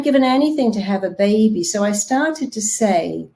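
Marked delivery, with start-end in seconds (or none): none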